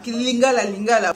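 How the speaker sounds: firm calling out of lingala; dad insisting. Retold or imitated. Dad urging the kids to speak lingala, firm call. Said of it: "papa na ngai azalaki koloba".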